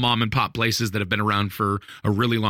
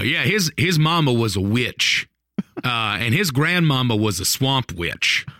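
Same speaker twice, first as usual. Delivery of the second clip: put-on old Southerner's accent. The speaker explains his pastor's family, lightly imitated Southern accent. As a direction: tell it like an old Southern local. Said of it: "He then goes and says".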